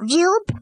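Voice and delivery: a quick playful whooshing zoop; zoop sound effect. Retold or imitated. Kid showing Doctor Manhattan reassembling, with a playful zoop. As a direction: toss off a cartoon zoop as the body snaps back. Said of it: "like that".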